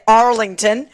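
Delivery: Arlington in an American accent; American-style Arlington. Shown as a demonstration. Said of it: "or as Americans say".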